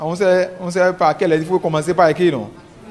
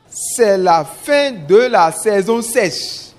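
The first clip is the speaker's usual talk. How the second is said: slow dictation; much slower than usual. Shown as a demonstration. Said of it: "une première lecture de la dictée".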